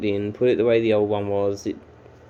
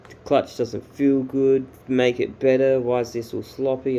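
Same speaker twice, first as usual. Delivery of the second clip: picky customer; 3 semitones higher, 3 dB louder than usual. Retold or imitated. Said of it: "so goddamn picky and so aggressive".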